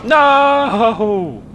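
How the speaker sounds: high, loud alarmed outburst; horrified yell of surprise; shocked cry. Real, not acted. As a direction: panic at the sudden realisation. Realises wrong side driving.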